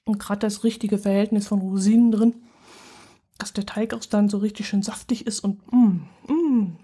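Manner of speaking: chewing while talking; mouth full. Real, not acted. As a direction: talk around a bite of stollen. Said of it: "Mund voll haben wollte". (mit vollem Mund)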